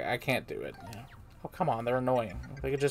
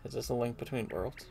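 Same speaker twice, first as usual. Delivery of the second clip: pleading fairy voice; 9 semitones higher than usual. Acted. Olivia pleads with Mario to get her out. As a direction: ask for help a little higher, worried.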